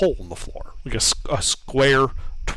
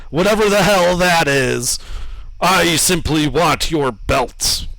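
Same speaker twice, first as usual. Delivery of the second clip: booming statue voice. Acted. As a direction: lord it over them, booming.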